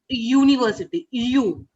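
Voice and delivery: UNIVERSITY begun with a clear "you" sound; initial Y sound. Shown as a demonstration. Teacher showing a student the first sound, Y sound stressed. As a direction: let the Y glide open UNIVERSITY, then U alone. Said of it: "what word you can hear".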